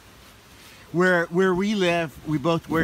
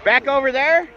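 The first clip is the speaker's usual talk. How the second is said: weather forecast; 3 semitones higher than usual. Pretend. Mock weather forecast on the beach.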